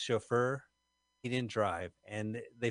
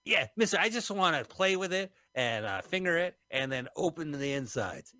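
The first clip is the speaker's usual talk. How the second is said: whiny Costello voice; 5 semitones higher than usual. Retold or imitated. Voicing Costello wanting the clock.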